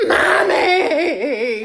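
high, mock wailing child call; imitated toddler cry. Mother imitating her toddler crying for mommy. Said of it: "Noelle in the back".

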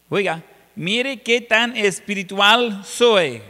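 slow, drawn-out mock bragging; boastful self-sufficiency. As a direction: show off like a proud self-made man. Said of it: "eso de que no necesito a Dios". (presumiendo con burla, lento)

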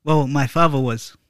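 lightly put-on Irish accent; bad Irish accent. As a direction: attempt an Irish accent, not very well. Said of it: "or Irish".

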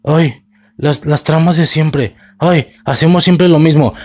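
lightly put-on silly voice, mocking; mock the show with a half-hearted dumb little voice. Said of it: "hacer vocecita de pendejo". (vocecita burlona de tonto, apenas actuada)

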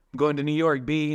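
put-on playful New York accent. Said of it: "in a New York accent".

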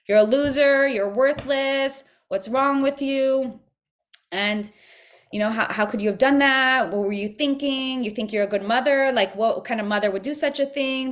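hint of a sneering accuser; the shaming voice of the Yetzer Hara berating a mother, lightly mocked; mild mock inner critic. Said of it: "the voice that said I'm a terrible mother".

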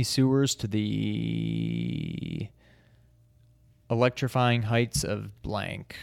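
slow, weighty movie-trailer read; dramatic trailer voice. Acted. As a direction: sell it like an ad. Reads game box blurb.

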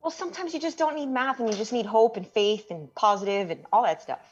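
peppy rah-rah pep talk; rally him with hope; cheerleader. Real, not acted. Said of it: "There's your cheerleader".

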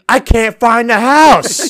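high, loud re-enacted protest; exasperated yell back. Lost delivery driver answering an angry motorist, exasperated yell. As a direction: stretch the words out in a hollered plea. Acted shouting match with driver.

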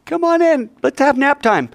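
high, sugary inviting voice; sweet hostess voice. Retold or imitated. Yael coaxing Sisera into her tent, sweetly. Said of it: "and she says".

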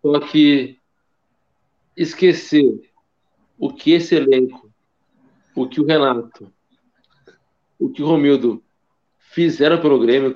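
halting tipsy talk, pausing between words. Real, not acted. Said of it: "eu tô muito bêbado pra falar".

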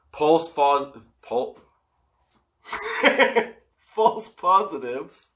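stumbling over the words while high; tongue-tied stumble. Real, not acted. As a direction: trip over "false positives" and restart. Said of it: "let me try that again".

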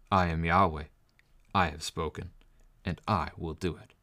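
measured, solemn reading of the passage; scripture reading. Acted. Pastor reads the text to the church, solemn and measured. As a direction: read it out as the word of God.

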